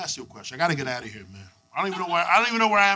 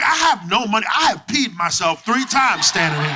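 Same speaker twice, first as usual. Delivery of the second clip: mock panicked yell; 2 semitones higher, 4 dB louder than usual. Panicked reply to the dudes.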